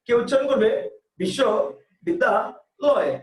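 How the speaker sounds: বিশ্ববিদ্যালয় said slowly in three chunks; বিশ্ববিদ্যালয় in three unhurried beats; three-beat pronunciation. Shown as a demonstration. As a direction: chop বিশ্ববিদ্যালয় into three slow parts. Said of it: "এক একজনের উচ্চারণ এক এক রকম".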